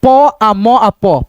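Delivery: प आ म आ प spelled out very slowly, sound by sound. Shown as a demonstration. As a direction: break पंप into its sounds slowly. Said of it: "पंप".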